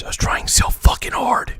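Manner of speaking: breathy whispered aside; real whisper. Real, not acted. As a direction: whisper it to the audience.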